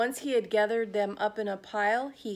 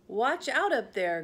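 calling out; 3 semitones higher, 3 dB louder than usual. Acted. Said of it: "good Trevor did cry".

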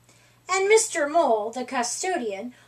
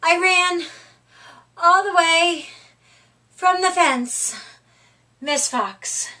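croaked; 3 semitones higher, 4 dB louder than usual. Acted. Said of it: "Squirrel croaked".

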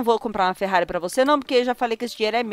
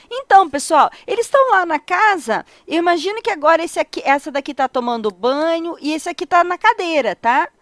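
light imitation of Dália narrating, a bit higher; imitating Dália; 5 semitones higher than usual. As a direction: play a chatty host reporting. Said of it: "ela fala". (imitando a Dália de leve)

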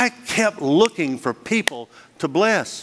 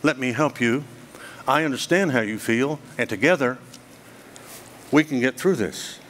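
comforting; 3 semitones lower, 4 dB quieter than usual. Retold or imitated. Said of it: "or you can do this".

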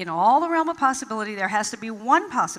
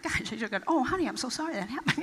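rueful laughing aside; 6 dB quieter, faster than usual. Retold or imitated. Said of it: "later I would think".

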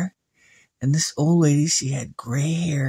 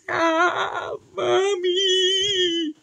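put-on very high small girl's plea; little girl pleading; much slower than usual. Samantha begging her mother for help, very high. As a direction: beg like a frightened little girl. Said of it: "she was saying".

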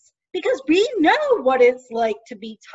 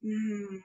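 pretend yawn; 4 semitones lower, 11 dB quieter than usual. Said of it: "I guess I'm yawning".

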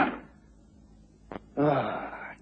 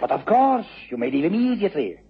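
sharp dismissal; 9 semitones higher than usual. Acted. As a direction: send her away at once, sharply. Harat dismisses the visiting lady.

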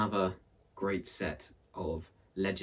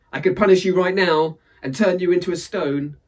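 loud, higher menacing threat; threatening Death; 9 semitones higher, 11 dB louder than usual. Acted. Death threatening Aunt Misery, loud and menacing. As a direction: threaten her with full force.

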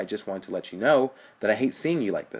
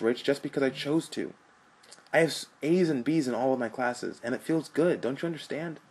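impassioned plea; 5 semitones higher, 5 dB louder than usual. Acted.

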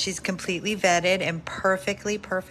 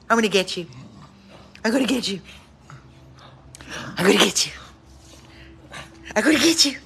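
tag; 5 dB louder, much faster than usual. Real, not acted. Playful chase.

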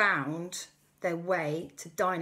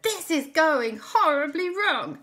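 panic; 10 semitones higher, 8 dB louder than usual. Acted. Chase scene, Auntie Lisa panics.

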